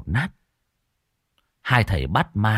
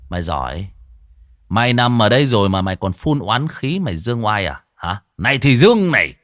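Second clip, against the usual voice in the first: grind it out, then hit louder on the last line; menacing growl; 4 dB louder than usual. Acted. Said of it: "Cậu gằn giọng".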